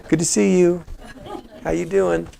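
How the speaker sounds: light, casual treadmill greeting; mock small talk from the treadmill; casual gym-goer. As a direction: lightly play an easygoing gym socializer. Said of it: "on a treadmill reading your book, like this".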